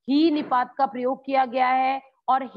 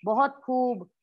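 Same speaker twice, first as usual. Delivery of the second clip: praise; slower than usual. Shown as a demonstration. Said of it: "किसी की प्रशंसा करती हूँ".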